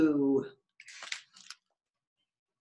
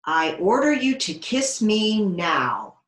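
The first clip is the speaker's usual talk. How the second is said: louder, slow royal order; frog princess command; 3 semitones higher, 6 dB louder, slower than usual. Acted. Frog princess ordering Davy to kiss her, loud and slow. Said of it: "the frog said".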